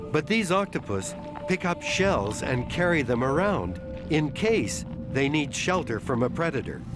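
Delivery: calm measured documentary narration; nature documentary. A narrator's reading. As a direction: narrate it like a wildlife film. Documentary narration of octopus intelligence.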